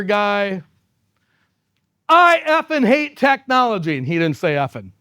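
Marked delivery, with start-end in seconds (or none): 2.1-4.0 gruff hostile declaration. Retold or imitated. Intimidating customer walks into meeting.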